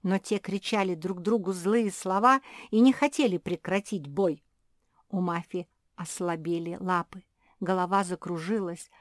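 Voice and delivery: usual speaking voice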